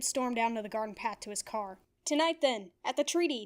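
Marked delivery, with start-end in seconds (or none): 2.0-3.4 yelled. Acted. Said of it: "Dib yelled".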